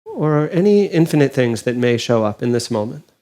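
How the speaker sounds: calm, unhurried meditation guide with long pauses; guided meditation. Acted. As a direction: gently guide them inward, leaving space between phrases.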